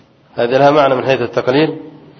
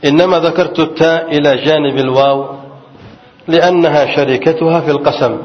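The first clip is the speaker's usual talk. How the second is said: reading a text aloud; 3 semitones higher than usual. Acted. Teacher reads the quoted grammar text to students, in recitation style. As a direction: read the old commentary aloud to the class.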